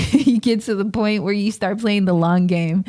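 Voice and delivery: real chuckle easing into talk; laughing. Real, not acted. Telling listeners about the long game, laughing. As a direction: start laughing, then settle as you talk.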